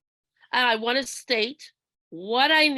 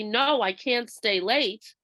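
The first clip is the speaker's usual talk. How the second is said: calm, steady refusal; slower than usual. Shown as a demonstration. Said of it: "learn to say no when I need to".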